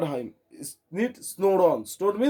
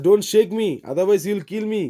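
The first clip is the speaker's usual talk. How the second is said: louder begging plea; pleading; 2 semitones higher, 4 dB louder, much faster than usual. Retold or imitated. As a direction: beg him not to shake you. Retelling Tom's plea.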